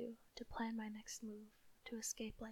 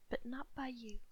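furious; 5 dB louder than usual. Acted. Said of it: "said Bellatrix furiously".

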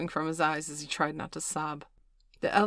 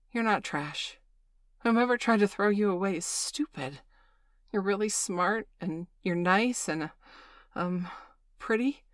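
passionate; 4 semitones higher, 4 dB louder than usual. Acted. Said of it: "Bailey said rather passionately".

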